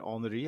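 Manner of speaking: "Henry" said the French way, silent H, "Anri"; French pronunciation. Shown as a demonstration. Host asks about the dog's name, French pronunciation.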